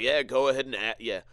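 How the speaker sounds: loud, cocky taunting voice; mocking the dude. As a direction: egg him on, loud and smug. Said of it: "He's like".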